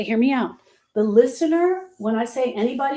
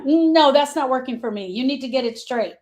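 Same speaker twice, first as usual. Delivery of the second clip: mock dismissive; 3 semitones higher than usual. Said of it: "they're on the outside going".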